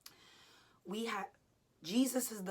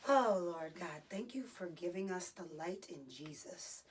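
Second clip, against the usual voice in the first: prayer. Real, not acted. Prayer during wall sit.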